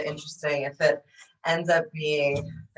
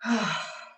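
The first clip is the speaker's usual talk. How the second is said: dramatic sigh; 3 semitones higher than usual. Shown as a demonstration. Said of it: "Big exhale, let it go".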